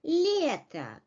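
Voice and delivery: "Лето" as LYE-ta, stress on the first syllable; long first vowel in "Лето", weak ending. Shown as a demonstration. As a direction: lean on a full "ye" in "Лето". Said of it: "Ye, under stress".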